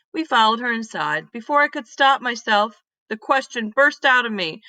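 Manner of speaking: put-on lively read-aloud voice for kids; storybook reading. Teacher reading a story to her class, lively read-aloud. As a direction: tell it like a picture book to a class.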